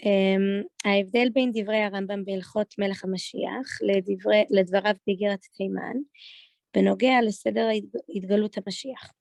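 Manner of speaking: Israeli Hebrew pronunciation; Israeli accent. Shown as a demonstration. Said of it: "doing it in an Israeli accent".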